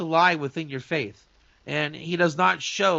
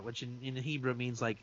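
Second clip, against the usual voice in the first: ordinary talk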